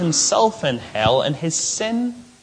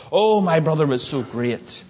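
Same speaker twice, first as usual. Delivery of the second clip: lightly voiced gushing brother at a funeral; a touch of naive awe; admiring mourners. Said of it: "You can imagine those brothers".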